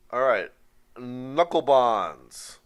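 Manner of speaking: put-on slow, loud Jewish accent; hammed-up Jewish accent, drawn out; fake Jewish accent. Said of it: "I'll do my fake Jewish accent".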